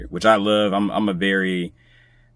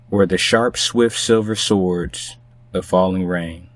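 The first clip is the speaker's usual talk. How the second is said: poem reading. Acted. Guest reading a Langston Hughes poem for the podcast, measured recital. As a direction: read it like a poem on air, letting each line breathe.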